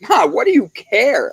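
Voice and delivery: high mock teasing of mom; teasing daughter. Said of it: "she's like".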